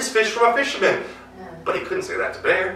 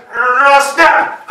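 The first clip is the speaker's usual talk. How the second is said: loud, higher cry of effort; sudden strain and snap; 7 semitones higher, 11 dB louder than usual. Acted. Bear pulling his tail free from the ice, loud cry. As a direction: yank and blurt it out.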